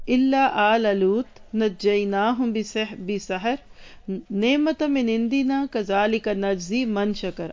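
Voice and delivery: measured, drawn-out recitation of the verses; slow Quranic recitation. Acted. Teacher reciting Surah Qamar to her class, slow and devout. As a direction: chant each verse slowly, with reverence.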